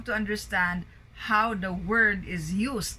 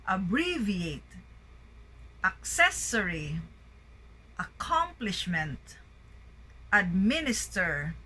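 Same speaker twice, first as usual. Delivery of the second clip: each word like "Abbreviate" peaking on its second syllable; second-syllable stress. Shown as a demonstration. Teacher drilling the next list, second syllable stressed as in "adventure". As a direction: read as a list, "agreement" with GREE stressed. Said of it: "primary stress on the second syllable".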